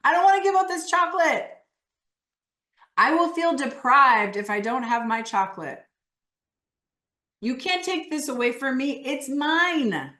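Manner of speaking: high, loud, possessive refusal; defiant protest. Acted. Coach voices the part refusing to give up chocolate, defiant. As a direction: protest like someone clinging to a treat. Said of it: "part of you that doesn't actually really wanna give this up".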